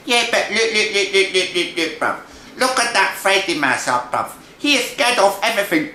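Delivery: put-on high street-slang young mouse; excitable little brother. Little brother points out Freddy to his brother, excitable and high.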